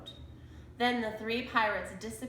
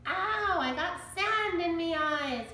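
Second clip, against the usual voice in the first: high, louder whiny pirate; whined; 8 semitones higher, 4 dB louder than usual. A narrator's reading. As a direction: complain like a big baby. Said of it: "Pinky whined".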